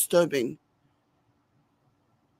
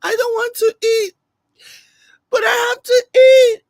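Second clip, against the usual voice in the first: much higher, louder fake sob; mock crying mother; 14 semitones higher, 9 dB louder than usual. Mocking the mother crying over fufu, hammed-up wail. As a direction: wail it like a weepy drama queen.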